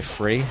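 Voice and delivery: free, the way he says three. Shown as a demonstration. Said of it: "the way I pronounce things".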